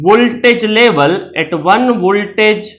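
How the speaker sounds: very slow, word by word; slow dictating pace; slow dictation. Shown as a demonstration. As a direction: spell it out slowly for notes. Teacher dictating definition slowly.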